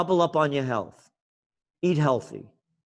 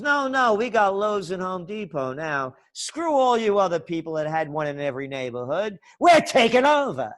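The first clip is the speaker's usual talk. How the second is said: mock corporate boss; 4 semitones higher than usual. Host mocking the big chains, lightly gloating boss voice. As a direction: lightly sneer it as the chains taking over.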